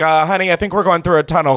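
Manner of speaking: usual speaking voice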